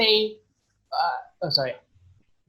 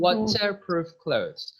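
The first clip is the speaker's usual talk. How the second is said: slow British waterproof clothes with a crisp T; British waterproof, T fully pronounced; British accent; slower than usual. Shown as a demonstration. Teacher demos the British accent to students. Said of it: "you could just say with T".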